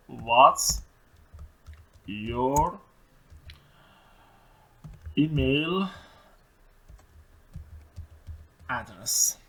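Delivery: What's your email address, each word apart with long pauses; dictation. Shown as a demonstration. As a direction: dictate one word at a time. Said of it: "word by word dictation". (دیکته کلمه به کلمه با مکث)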